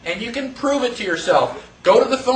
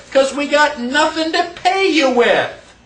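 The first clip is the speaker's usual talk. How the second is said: imitating employer; 5 semitones higher than usual. Employer answering job seeker.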